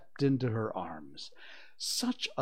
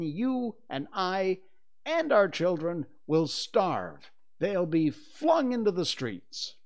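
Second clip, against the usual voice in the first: loud, raised, forceful warning; stern; 6 semitones higher, 6 dB louder than usual. A narrator's reading. Father warns mother of family ruin, stern. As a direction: build a grave threat, emphatically. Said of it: "he went on sternly".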